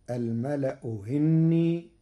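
slow "الملأ هني", second hamza eased almost to h; softened second hamza. Shown as a demonstration. Sheikh shows Warsh's first option, "هني" with eased hamza. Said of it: "بتسهيل الهمزة الثانية بين بين".

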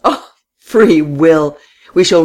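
high, loud and lingering. A narrator's reading. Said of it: "then said in a high voice".

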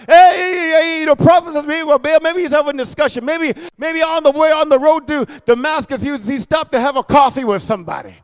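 quick, teasing taunt; mocking speculation. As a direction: needle them with mock-helpful guesses. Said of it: "He's mocking them".

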